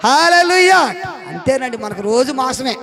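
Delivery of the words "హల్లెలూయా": high ringing hallelujah shout; loud hallelujah. Real, not acted. Preacher calling hallelujah to the congregation, loud.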